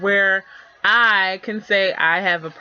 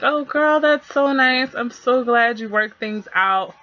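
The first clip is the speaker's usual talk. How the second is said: supportive gush; 5 semitones higher than usual. Pretend. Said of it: "be super supportive and be like".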